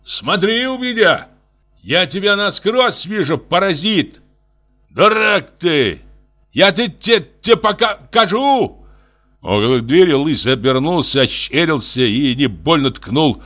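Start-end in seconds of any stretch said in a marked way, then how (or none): 0.0-4.2 very high, furious shout; furious yell. A narrator's reading. Senya chases Lysy out. 4.9-8.9 a big man yelling a stumbling threat; angry retort. A narrator's reading. Lysy shouts back in quarrel.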